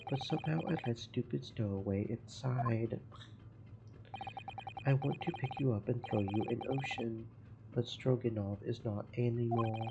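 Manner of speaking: a hint of a Russian accent, gruff and proud; broken-English Russian sailor. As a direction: play the touchy ship's guard, lightly accented. Guard grumbles about the stowaway.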